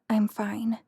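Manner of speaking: breathless whisper of embarrassment. A narrator's reading. Embarrassed Ashley insisting to the man, a whisper. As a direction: whisper it, wanting to vanish.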